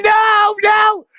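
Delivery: high shrieking panic, no no; mock scream of a woman in a car; hammed-up high screech of refusal; imitating Bluebells screaming. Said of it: "Bluebell's going".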